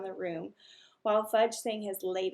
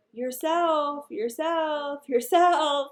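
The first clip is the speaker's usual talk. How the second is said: higher, louder parroted yourself; bird repeating; 6 semitones higher, 7 dB louder, much slower than usual. Acted. Mynah bird parroting Peter's reply. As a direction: squawk it back, building. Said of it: "he repeated".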